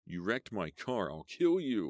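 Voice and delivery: hurt man shrieking a threat. Acted. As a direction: shriek it at her. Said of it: "Lloyd shrieked".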